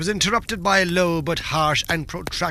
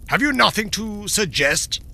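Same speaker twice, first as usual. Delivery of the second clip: impatient; 4 semitones higher than usual. Acted.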